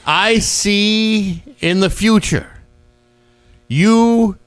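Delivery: high, slow mystic intoning; drawn-out spooky fortune teller; psychic medium voice. Retold or imitated.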